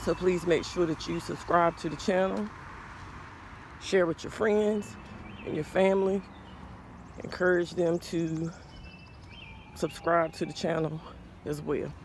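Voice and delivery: a little winded after exercise; talking while still catching breath. Real, not acted. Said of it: "Sorry, y'all, I'm a little winded".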